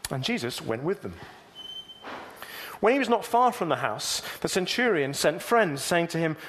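steady, measured reading of a Bible passage; preacher reading Luke aloud to the congregation; scripture reading. Acted. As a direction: read it out clearly for the church.

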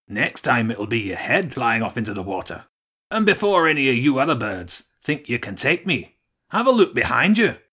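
a lightly voiced rat, rising to a threat; menacing rat. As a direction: taunt the birds, building to a shout. Rat threatens the pigeon birds.

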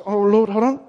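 loud, pushy list of orders to God; demanding prayer. Retold or imitated. Believer ordering God around, mock pushy loud. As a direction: bark demands at God like errands. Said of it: "we get him out of our pocket".

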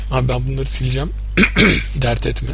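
hoarse, cracking voice after throat clearing; rough voice, clearing the throat; cracked voice. Real, not acted. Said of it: "Sesim çok çatladı". (çatlak ses)

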